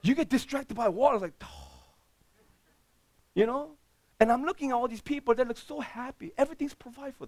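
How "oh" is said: breathless oh. Retold or imitated. Distracted by the ocean.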